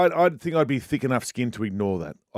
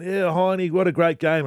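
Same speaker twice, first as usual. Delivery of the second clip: cheery fan praise; 7 semitones higher, 3 dB louder, slower than usual. Retold or imitated.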